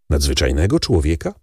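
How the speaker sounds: doubtful repeat ending on a rise; surprised echo. Acted. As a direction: echo his words back in disbelief. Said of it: "gdy po raz pierwszy ujrzałem tego nadzwyczajnego człowieka".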